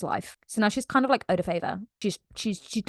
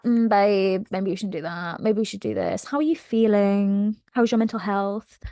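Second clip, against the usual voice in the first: gentle mock concern. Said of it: "She's always like".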